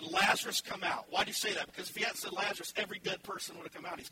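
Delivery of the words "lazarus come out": shouted command. Acted. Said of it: "Then Jesus shouted".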